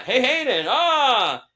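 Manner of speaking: high, loud blurt into a yell; frantic fan greeting. Retold or imitated. Fan with a split second to speak, frantic high yell. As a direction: blurt it out in a starstruck panic.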